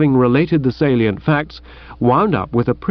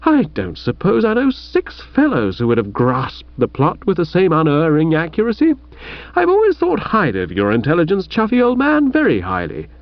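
flattering; 4 semitones higher than usual. Acted. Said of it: "suck up a bit and apply the old salve".

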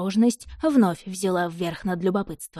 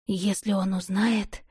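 trembling whisper; slower than usual. Acted. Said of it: "дрожащим голосом прошептала Илария".

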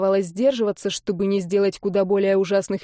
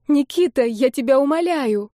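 higher, louder begging; imploring cry; 5 semitones higher, 4 dB louder than usual. Acted. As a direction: implore him with all you have. Olga begging again.

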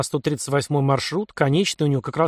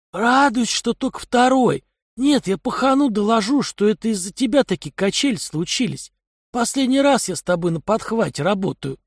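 higher, gruff criminal voice; a streetwise thug scoffing; 7 semitones higher than usual. Acted. Kai's voice in dialogue.

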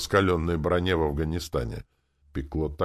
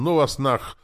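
loud, high cry of giving up; high-pitched fed-up shout; yell; 11 semitones higher, 7 dB louder than usual. A narrator's reading. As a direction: yell it as you bolt from the heat. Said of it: "и с воплем".

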